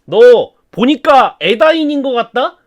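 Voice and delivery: dark lord taunting a prisoner, sneering; menacing Sauron. Acted. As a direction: lean in and interrogate the captive. Sauron interrogates Gorlim.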